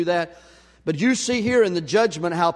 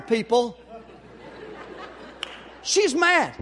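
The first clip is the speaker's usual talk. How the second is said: amused aside; 9 semitones higher, slower than usual. Real, not acted. Laughing aside at the driver.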